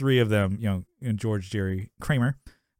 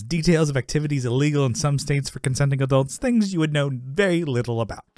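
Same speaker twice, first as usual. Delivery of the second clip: slightly raised, showy recital; hamming it up; 3 semitones higher than usual. Retold or imitated. Jerry showing off to Elaine, hamming it up. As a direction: imitate Jerry showing off, lightly hammed. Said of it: "he's pl-, hamming it up".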